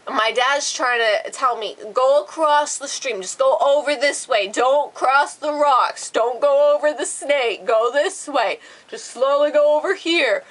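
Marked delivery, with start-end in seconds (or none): 1.9-10.4 slightly raised, emphatic dad voice; punchy parody of fatherly instructions; mimicked instructing dad. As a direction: imitate dad directing step by step. Acting out dad coaching her across.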